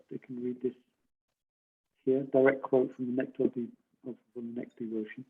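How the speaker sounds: faint, hard to hear; barely audible. Real, not acted. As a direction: voice fading away from the mic. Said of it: "your voice is very low".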